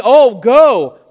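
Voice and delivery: loud, overemphasized "go"; emphasis on go. Retold or imitated. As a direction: hit "go" hard, mimicking a forceful command. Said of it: "they emphasize".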